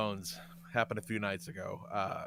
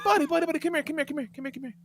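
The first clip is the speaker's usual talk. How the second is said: coaxing; 13 semitones higher, much faster than usual. Retold or imitated. Dad calling sulking son over, coaxing and softening. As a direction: lure the sulking kid over gently. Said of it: "And I said".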